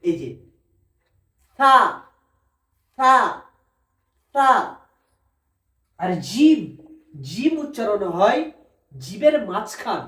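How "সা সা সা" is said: সা with tongue tip at the upper teeth; careful letter drill; Arabic letter demo. Shown as a demonstration. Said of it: "সা উচ্চারণ হয় এই জিভের আগা".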